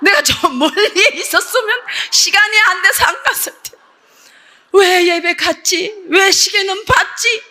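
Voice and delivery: slow, wailing self-reproach, acted out; retold tearful regret. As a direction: draw out each regretful why, mock-weeping. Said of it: "울면서". (울먹이듯 길게 늘이는 후회 재연)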